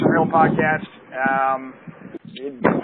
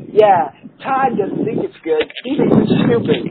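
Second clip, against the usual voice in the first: much higher, whiny mock girlfriend voice; squeaky girlfriend; 12 semitones higher than usual.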